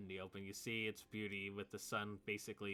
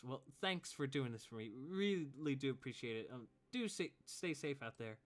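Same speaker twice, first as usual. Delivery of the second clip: put-on higher, grateful girl; young woman's voice; 5 semitones higher, 3 dB louder than usual. Abigail thanking the party, higher voice. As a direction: thank them sincerely. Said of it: "And Abigail says".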